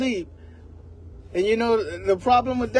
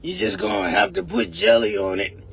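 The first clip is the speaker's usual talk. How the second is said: gruff grandma; 3 semitones lower than usual. Retold or imitated. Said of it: "a voice like that".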